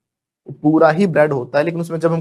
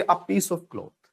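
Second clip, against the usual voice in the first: slow model phrase; 7 dB quieter, much slower than usual. Shown as a demonstration. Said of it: "उसको बोलोगे".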